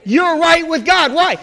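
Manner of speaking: emphatic, rousing pulpit assurance; fervent preaching. Real, not acted. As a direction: preach it with conviction, leaning on the key words. Preaching at a peak.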